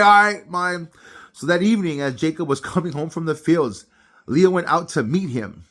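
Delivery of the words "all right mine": gleeful. Retold or imitated. Leah eagerly accepts deal.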